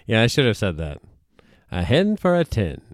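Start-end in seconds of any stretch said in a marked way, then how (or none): 1.7-2.8 auctioneer. Retold or imitated. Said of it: "the hens".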